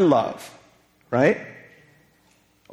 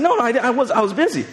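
mock excuse; 6 semitones higher than usual. His excuse to wife.

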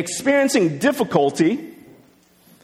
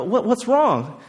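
lightly voiced concern, higher pitched; concerned psychologist; 4 semitones higher than usual. Psychologist asks a crying boy about toys, mildly concerned. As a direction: gently imitate a psychologist questioning a child. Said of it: "the psychologist goes and is like".

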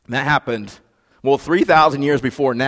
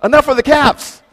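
higher, mock-exasperated protest; mock exasperated listener; 12 semitones higher, 6 dB louder than usual. Congregant begging the preacher to stop shouting, mock exasperated. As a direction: play the tired listener. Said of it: "you're like".

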